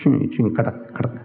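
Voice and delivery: imitated creak of old bones, trailing off softly. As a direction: mimic joints clicking, low and small. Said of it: "my bones are creaking".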